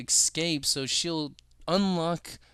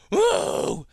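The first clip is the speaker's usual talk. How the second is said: surprised; 11 semitones lower, 7 dB louder than usual. Real, not acted.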